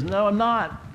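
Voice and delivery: high, loud retold protest; acted insistent denial. Man contradicts pastor in retold argument.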